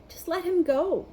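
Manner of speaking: high urgent plea; urging. A narrator's reading. Harry urging Hagrid about the dragon, high and pressing. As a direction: press him to let the dragon go. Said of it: "Harry urged".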